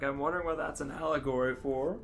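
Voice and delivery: ordinary talk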